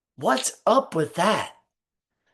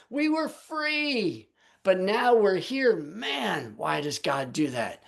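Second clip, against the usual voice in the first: mock-complaining grumblers, rising and falling; whining Israelites. Preacher voicing the Israelites grumbling against God, mock whine. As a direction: play the griping crowd in the wilderness, lightly hammed. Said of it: "And they're saying".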